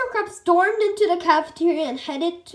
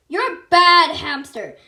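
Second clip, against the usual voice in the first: crying; 2 semitones higher, 10 dB louder than usual. A narrator's reading. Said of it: "Melvin cried".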